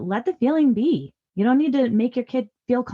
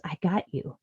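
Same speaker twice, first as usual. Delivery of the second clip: soft, steady reassurance; quiet confidence; 3 semitones lower, 7 dB quieter than usual. Acted. Empowered parent to struggling kid, quietly reassuring. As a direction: say it low-key and assured. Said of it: "feel empowered to show up as".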